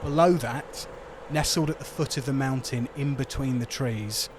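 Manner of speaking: measured storyteller narration; game master's scene setting. Acted. Game master describing the snowy resort to players, scene-setting narration. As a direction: paint the scene in a steady, deliberate narrating voice.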